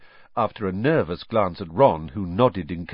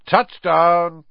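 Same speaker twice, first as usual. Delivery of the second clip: excited cheer; 8 semitones higher, 8 dB louder than usual. Acted. Fred lands the flying car.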